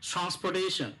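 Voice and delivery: ট্রান্সপোর্টেশন with its T aspirated like ঠ; aspirated T sound. Shown as a demonstration. Teacher repeating what the newsreader said, aspirated T in ট্রান্সপোর্টেশন. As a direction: model ট্রান্সপোর্টেশন with ঠ for plain ট. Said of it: "তাহলে বলছে".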